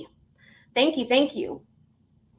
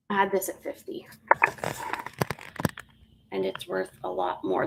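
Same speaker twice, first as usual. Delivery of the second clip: whisper; 3 semitones lower, 7 dB quieter, faster than usual. Real, not acted. Hushed aside about the price.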